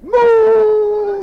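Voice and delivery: high, loud, crying moo; a yelp of a moo from the pricked cow; startled moo. Acted. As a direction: cow cries out moo in the thistles. Cow cries out, finally mooing.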